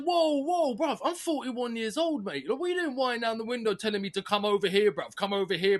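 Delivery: mock outrage at a stranger; indignant retort. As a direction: raise the pitch in disbelief, telling him off. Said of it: "I said".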